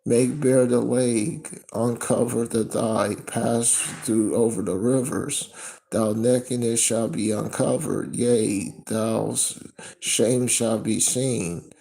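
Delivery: loud, slow proclaiming; scripture reading. Acted. Reads scripture loudly.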